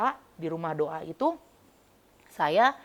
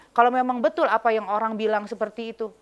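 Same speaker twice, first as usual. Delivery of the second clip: challenging, like a thug; 4 semitones higher, 5 dB louder than usual. Retold or imitated. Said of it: "kayak sama preman gitu".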